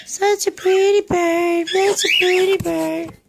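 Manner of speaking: high sing-song praise to the bird; parrot-teaching voice. Real, not acted.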